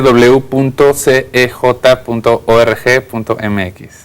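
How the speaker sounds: slow, spelled out letter by letter; half robot voice. Shown as a demonstration. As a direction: dictate each letter like a robot. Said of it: "Como robotito".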